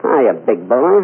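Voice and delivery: sultry drawled come-on, slow; purring Mae West come-on; Mae West impression. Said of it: "make believe it's Mae West".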